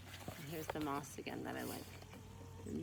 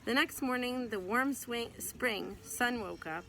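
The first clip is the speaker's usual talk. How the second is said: tripping over the words mid-read; tongue-tied stumble; 6 semitones higher, 6 dB louder, slower than usual. Real, not acted. Mother stumbling over a line while reading to her child, tongue-tied. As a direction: fumble the line, swing for spring. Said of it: "Wow, I got tongue-tied".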